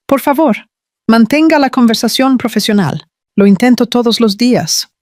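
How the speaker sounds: voice failing. Acted. Olivia pleading with her boss to stay professional, voice faltering. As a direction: let the voice start to give way. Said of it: "y su voz fallaba".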